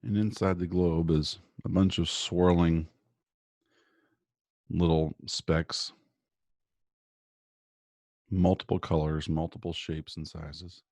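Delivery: calm, measured guiding voice with long pauses; guided meditation. Real, not acted. Guest doctor leading listeners through morning breathing and visualization, guided meditation.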